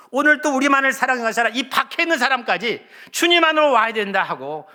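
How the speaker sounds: high, loud, rising sermon climax; a pastor pleading with the congregation, loud and high; impassioned preaching. Acted. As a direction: preach it out with full fervor. Preaching at full force.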